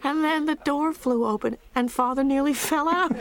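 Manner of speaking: excited. Acted. Funny memory of the car ride.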